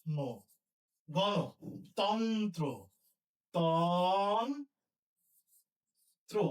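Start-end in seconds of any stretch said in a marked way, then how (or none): 1.1-6.4 গণতন্ত্র drawn out slowly; slow dictation. Shown as a demonstration. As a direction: stretch out গণতন্ত্র word by word. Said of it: "কি লিখবো?".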